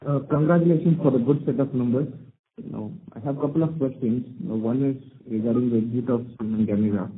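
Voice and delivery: muffled voice, hard to make out. Real, not acted. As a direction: speak as if through a cloth over the mouth. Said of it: "so your voice is, uh, muffled".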